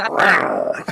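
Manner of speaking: low growled rawr; lion roar. Shown as a demonstration. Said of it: "Come on, say it".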